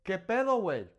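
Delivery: bright, upbeat "¿Qué pedo, güey?"; a casual greeting to a buddy; friendly. Shown as a demonstration. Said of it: "I can also say".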